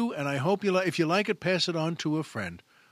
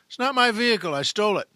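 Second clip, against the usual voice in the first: cheerful driver; 5 semitones higher, 6 dB louder, faster than usual. Acted. Driver casually confesses to cop.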